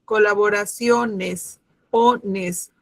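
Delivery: colaboraciones slowed, leaning on SIO; slow syllable stress. Shown as a demonstration. Teacher slows colaboraciones to show the stressed SIO. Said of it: "la sílaba tónica está en sio".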